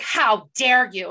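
slow, emphatic imitation of outrage; mock indignation. Retelling the pissed heroine's reply, mock indignation. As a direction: stretch each word in mock offence. Retelling a character's angry line.

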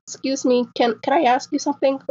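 lightly voiced shy six-year-old; little girl voice. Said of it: "so she was like".

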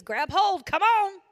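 casual mock call. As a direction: toss off a lazy, careless call for help. He wasn't doing one of these.

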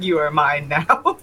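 low, slow menacing growl; menacing villain. Retold or imitated. Narrating a cartoon villain to friends, low and slow. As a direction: claim the child in a deep slow villain voice. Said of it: "Saw the child and was like".

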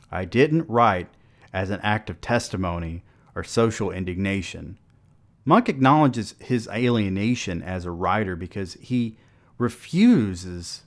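steady, measured read of an essay; formal paper reading. Acted. Podcast host reading her paper aloud to listeners, measured. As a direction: present the essay like an academic.

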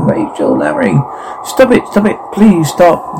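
high-pitched pleading shout, held back in volume; mock shouting. Calling Rachel and Larry to stop, restrained shout. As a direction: cry out for them to stop, without real volume.

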